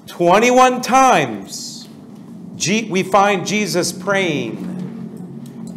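very slow, spelled-out dictation. Shown as a demonstration. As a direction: dictate slowly for note-taking. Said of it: "write next to it".

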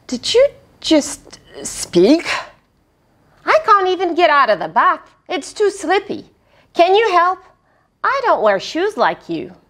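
quick, high pleading; high small spider voice. Acted. Spider in the bath pleads with the boy, quick and high. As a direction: plead fast in a tiny voice. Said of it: "boy and spider talk".

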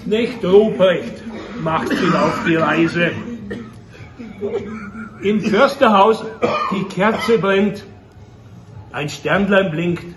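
spaced-out closing verse; solemn recital winding down; poem recitation. Acted. Recites the poem's ending.

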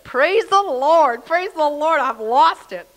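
high, loud-edged shout of praise; exultant re-enacted hallelujah cry; jubilant praise. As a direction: draw out the first praise, voice soaring. Elated new convert praising aloud.

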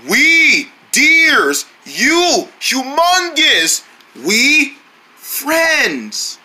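lightly voiced caveman, halting words; caveman talk. Deer greeting the dinosaur in mild caveman talk. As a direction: speak in broken caveman grunts. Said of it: "trying to sound like a caveman".

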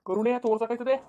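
acted indignant questioning; scornful retort. Husband rejecting his wife's plea for compassion, scornful. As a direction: throw her words back with scorn.

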